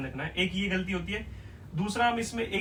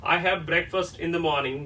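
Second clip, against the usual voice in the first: slow example; 3 dB louder, much slower than usual. Shown as a demonstration. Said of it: "जब आप बोलते हैं ना".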